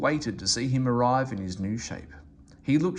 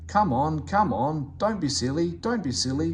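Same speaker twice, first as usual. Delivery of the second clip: puffing engine; 4 semitones higher than usual. Acted. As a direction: coax the vans along. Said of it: "puffed Henry".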